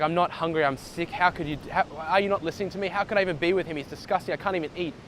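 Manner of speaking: whiny granddaughter begging to be heard; upset granddaughter. Acted. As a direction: plead like a frustrated granddaughter. Granddaughter complains about breakup.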